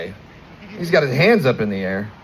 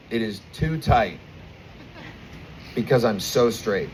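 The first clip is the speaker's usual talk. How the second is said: quoting the doctor; 3 semitones lower, 5 dB quieter than usual. Retold or imitated. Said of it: "and I will quote the doctor".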